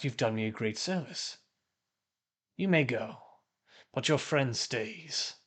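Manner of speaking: lightly voiced cultist passing judgement; a hint of a haughty villain; imperious cultist leader. Cultist leader lets one prisoner go, mildly imperious.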